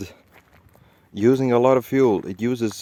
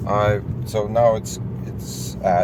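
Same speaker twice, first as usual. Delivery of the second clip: on a bumpy road. Real, not acted. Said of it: "the road is bumpy".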